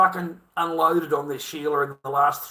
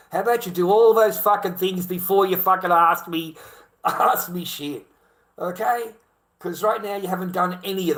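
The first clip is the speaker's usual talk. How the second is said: rising into a loud, angry rant; ranting demand; 3 semitones higher, 5 dB louder than usual. Retold or imitated. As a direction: throw the demands back at them, louder each time. Ranting at entitled women.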